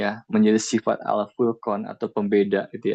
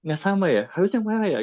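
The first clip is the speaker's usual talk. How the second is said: higher, hesitant mock realization; higher, unsure mock voice; self-doubting realization; 6 semitones higher than usual. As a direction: play someone suddenly doubting themselves. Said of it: "Kalau nggak siap kan jadinya".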